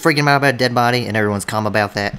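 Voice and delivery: fast, loud, outraged rant; panicked yelling. Acted. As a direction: freak out at everyone. Sherman freaking out at others.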